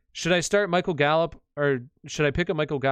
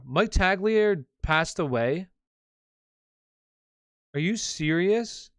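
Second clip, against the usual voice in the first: stunned disbelief; 4 semitones higher, slower than usual. Real, not acted. Reacting to news of death.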